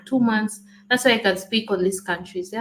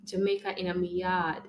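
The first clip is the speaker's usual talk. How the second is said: softer Jamaican patois demo; Jamaican accent; 6 dB quieter than usual. Shown as a demonstration. Partner teaches the phrase, soft Jamaican accent. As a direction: model it softly in a Jamaican accent. Models phrase for other to copy.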